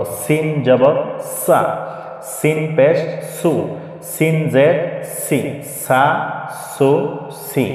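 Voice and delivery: সিন, সা, সু, সি with a hissed whistling s. Shown as a demonstration. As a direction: spell out, then recite সা সু সি with whistly s. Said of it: "একটু শীষ আওয়াজ দিয়ে পড়ব". (সা সু সি শিস দেওয়া স দিয়ে)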